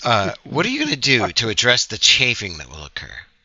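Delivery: put-on British accent, played straight-faced. Acting out a serious question at a showcase: deadpan british accent. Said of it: "Have to say with British accent".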